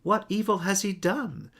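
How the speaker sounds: a governor questioning the mob; Pilate pleading. A narrator's reading. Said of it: "Pilate asked them".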